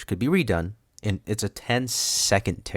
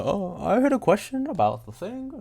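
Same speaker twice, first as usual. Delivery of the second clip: higher, put-on kid voice; imitating the kid; 12 semitones higher than usual. Host imitating the question-asking kid, higher and childish. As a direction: mimic an eager little kid asking a question. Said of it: "I'm worse than that kid".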